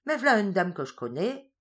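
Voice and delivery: a lightly voiced Norman peasant greeting; rustic carter calling out from his cart; country farmer. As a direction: hail her cheerily like an old farmer. Farin voiced in Norman patois.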